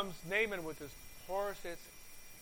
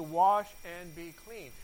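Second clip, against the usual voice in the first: slow, louder, every word weighted: "Wash and be clean."; slow emphatic quote; 4 dB louder, slower than usual. Retold or imitated. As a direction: lean hard on "Wash" and draw the line out. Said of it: "He actually said to you".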